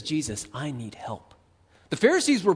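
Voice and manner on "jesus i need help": humble plea. Pretend.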